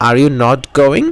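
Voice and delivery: very slow, word by word; slow model sentence. Shown as a demonstration. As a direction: spell it out for the class. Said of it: "model sentence drill". (খুব ধীরে, প্রতিটি শব্দ আলাদা করে)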